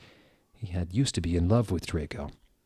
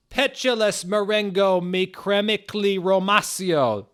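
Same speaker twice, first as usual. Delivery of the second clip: much higher, louder spell shriek; screamed spell; 12 semitones higher, 5 dB louder than usual. A narrator's reading. Hagrid casting a spell on the roses, screamed. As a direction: shriek the incantation. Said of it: "Then he screamed".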